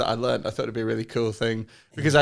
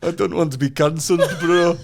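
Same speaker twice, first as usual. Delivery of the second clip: higher mock-pleading Bradford Asian; Bradford Asian accent; 5 semitones higher, 5 dB louder than usual. Comic joking to editor about being cancelled, Bradford Asian accent. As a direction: protest in put-on Bradford Asian. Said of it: "do Bradford Asian on the phone".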